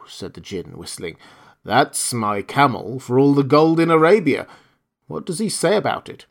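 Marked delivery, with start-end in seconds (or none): 1.6-6.3 loud, knowing magical spirit; a grand desert genie. Acted. Djinn answers the horse.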